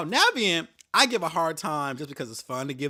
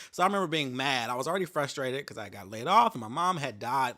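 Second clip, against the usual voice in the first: normal talking voice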